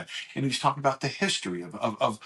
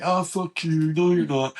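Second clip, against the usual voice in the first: brother's disbelief; 3 semitones higher, 5 dB louder than usual. Retold or imitated. Brother's disbelieving retort, retold.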